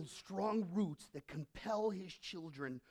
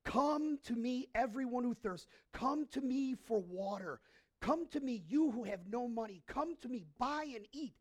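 calling voice of God; 5 semitones higher, 4 dB louder than usual. Retold or imitated. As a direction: call them in like a loving summons. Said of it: "he says".

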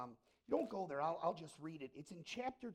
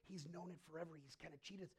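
grave confiding teacher; 4 semitones lower, 6 dB quieter than usual. Retold or imitated. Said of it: "And she goes".

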